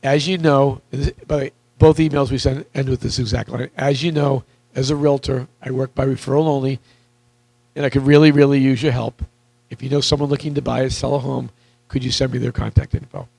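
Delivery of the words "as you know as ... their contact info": slowly. Shown as a demonstration. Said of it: "and I'll say it slowly".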